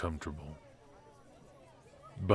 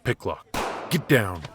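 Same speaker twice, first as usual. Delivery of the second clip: shouted warning, louder; urgent shout; 3 semitones higher, 7 dB louder than usual. Acted. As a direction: yell the warning. Sudden danger, shooting.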